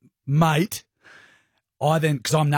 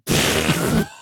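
imitated baby strain; 8 semitones lower than usual. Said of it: "This is what we hear".

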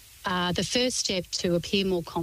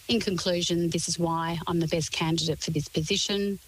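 falling tune on "position", a statement rather than a question; downward inflection. Shown as a demonstration. Coach showing a job candidate how to close with a downward inflection. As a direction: land each phrase down, firmly and certain. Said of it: "Downward inflection, hold that".

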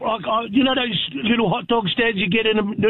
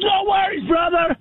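cheery vendor; 5 semitones higher than usual. Retold or imitated. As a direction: toss it out like a friendly street seller. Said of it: "He goes".

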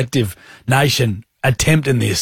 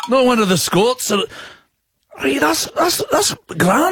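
put-on Scottish accent; 9 semitones higher than usual. Doing Scottish accents on air.

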